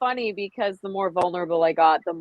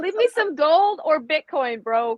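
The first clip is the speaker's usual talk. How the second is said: 1 joking plea; 8 semitones higher than usual. Acted.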